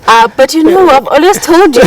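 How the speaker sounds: high, laughing tease to a friend. Real, not acted. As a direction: laugh through it, pitch up. Teasing the chef, laughing.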